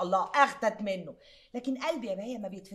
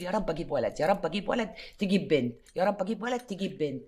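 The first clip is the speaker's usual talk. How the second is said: praying woman; 5 semitones lower, 3 dB louder than usual. Acted. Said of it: "واحدة ست عمالة تدعي تقول".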